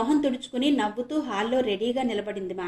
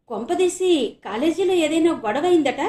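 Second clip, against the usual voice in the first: anxious; 7 semitones higher, 6 dB louder than usual. Acted. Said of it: "ఆతృతగా అడిగాడు ఆనంద్".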